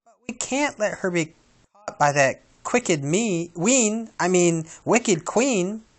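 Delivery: high, fussy muddled dwarf; flustered Doc. Acted. Doc muddles words about the wicked queen. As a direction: stumble and correct yourself.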